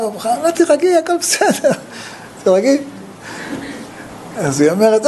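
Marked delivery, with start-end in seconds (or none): 0.4-2.8 high, soothing "תירגעי" with a laugh; soothing retold calming. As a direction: coax her to calm down, pitched high. Sister calming a crying woman. (מרגיעה בקול גבוה וצוחק)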